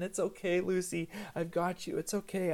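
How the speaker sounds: lightly acted soothing parent; reassuring. Dad rubbing his daughter's head and back, reassuring. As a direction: comfort a screaming child. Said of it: "show her that I'm there with her".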